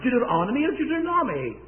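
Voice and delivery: "Deuteronomy" as doo-ter-ON-omy, then doo-ter-NOMMY; two pronunciations. Retold or imitated. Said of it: "how do you pronounce".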